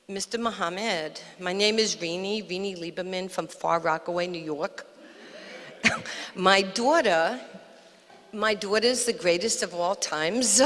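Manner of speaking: imitated New York mother introducing herself; low New York accent, proudly presenting her daughter. Mother boasting to the champ about her daughter, New York accent. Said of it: "She talked like this".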